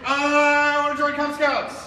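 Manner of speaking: put-on slow, loud chant for kids to copy; really loud. Shown as a demonstration. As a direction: belt it out slowly so the room repeats. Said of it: "And here's the key really loud".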